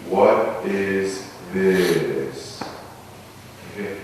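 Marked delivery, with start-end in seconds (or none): 0.1-2.6 slow contemplative chant of "What is this?"; slow meditative intoning. Shown as a demonstration. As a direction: intone it slowly like a question rising from the belly. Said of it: "you say, you mentally intone".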